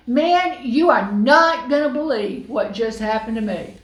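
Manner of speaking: loud, high, excited rush of news; gushing gossip. Pretend. Mary gushing to her best friend, loud and excited. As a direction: spill it all to a best friend, thrilled. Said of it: "call up her best friend and say".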